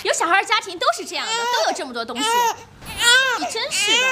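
indignant retort. Acted. Wife defending her housekeeping to husband, indignant. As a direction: push back against unfair blame.

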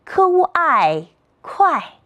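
"科乌爱快" slowly, high "科乌", falling "爱" and "快"; slow three-part blend "科乌爱快" into fourth tone; pinyin blending. Shown as a demonstration. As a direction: sound out "科乌爱", then join as falling "快". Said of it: "三拼音节".

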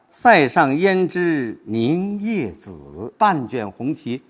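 slow, drawn-out verse delivery; poetry recitation. Shown as a demonstration. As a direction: recite slowly, giving each scene room. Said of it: "注意停顿和转换".

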